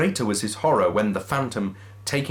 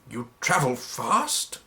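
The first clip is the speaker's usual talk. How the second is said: lightly voiced Scrooge; 3 semitones higher, slower than usual. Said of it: "said Scrooge".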